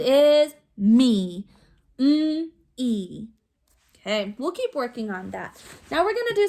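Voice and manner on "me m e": "me" said whole, then split into its two sounds; segmented sounds. Shown as a demonstration. Teacher models meat without its ending sound, sounded out. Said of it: "Say meat without the ending sound".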